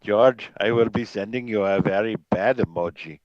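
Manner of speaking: a light take on a stern team principal; Toto Wolff impression. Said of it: "That's my Total Wolf impression for you".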